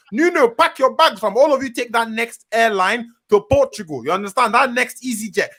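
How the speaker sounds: high-pitched rallying hype rant; hype merchant. Real, not acted. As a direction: gas up the team and taunt the rivals. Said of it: "I'm a hype merchant".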